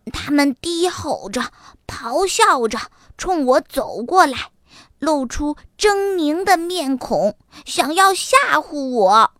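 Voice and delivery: lightly voiced eager youngster; dramatic little fox. Little fox describing tigers to mama, excited and dramatic. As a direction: describe the beasts with storybook drama.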